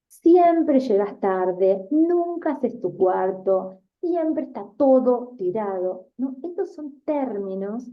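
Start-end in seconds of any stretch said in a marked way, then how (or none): 0.1-6.1 slow, louder mock reproach; accusing generalization. Teacher voicing a parent scolding a messy child, slow mock reproach. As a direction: lay the blame on them word by word. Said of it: "Por ejemplo".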